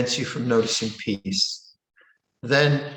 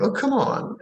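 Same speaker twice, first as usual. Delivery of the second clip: higher, deflated protest; exasperated; 9 semitones higher than usual. Retold or imitated. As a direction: push back, fed up. Listener's reaction to put-down.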